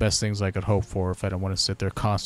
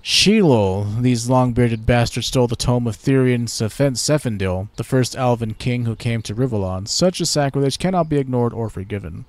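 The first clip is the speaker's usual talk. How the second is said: haughty elf, a touch louder; elf ambassador; 3 semitones higher, 6 dB louder than usual. Pretend. Elven ambassador greets the new Lord Protector, haughty. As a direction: greet the human with lofty pride.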